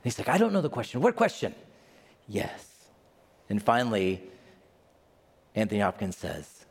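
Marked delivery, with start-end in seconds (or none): 0.3-1.5 rising puzzled voice; bewildered, climbing higher; confused protest. Retold or imitated. Hopkins confused. 2.3-2.7 low, soft ominous voice; hushed and knowing, like death. Retold or imitated.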